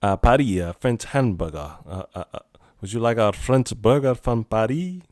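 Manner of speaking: put-on halting, half-hearted French accent; bad French accent. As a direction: fumble through a mock French waiter accent. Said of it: "I can't do a French accent".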